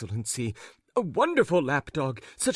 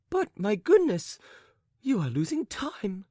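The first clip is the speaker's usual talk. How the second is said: urgent cry; 6 semitones higher than usual. A narrator's reading. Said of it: "cried the lady".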